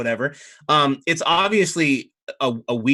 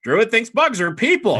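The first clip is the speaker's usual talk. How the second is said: squawking bird; 9 semitones higher, 7 dB louder than usual. Acted. Baby phoenix repeats its squawk, stress on "bugs". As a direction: repeat the screech, hitting "bugs". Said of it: "and it goes".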